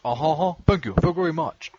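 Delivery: lightly voiced singer's mumble; impression of a famous singer. Mocking the stereotype of a famous singer, lightly imitated. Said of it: "You do an impression of a famous singer".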